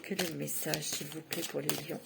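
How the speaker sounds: soft, low murmur asking the cards; quiet, intimate plea to the oracle; hushed request. Real, not acted. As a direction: ask the cards softly, almost to yourself.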